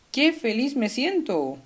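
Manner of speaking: lifted, demonstrative exclamation; happy exclamation. Shown as a demonstration. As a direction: exclaim it as someone feeling happy. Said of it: "Es una exclamación".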